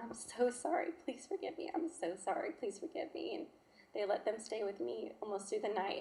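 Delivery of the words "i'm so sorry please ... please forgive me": retold tearful plea, voice lifting and thinning out; tearful apology. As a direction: beg forgiveness, retelling it close to tears. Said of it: "I just kept crying".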